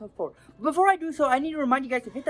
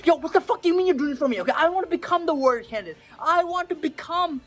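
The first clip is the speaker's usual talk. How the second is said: fast, higher, indignant outburst; mock outraged Gabby; 5 semitones higher than usual. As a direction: demand an answer in disbelief. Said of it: "Gabby was like".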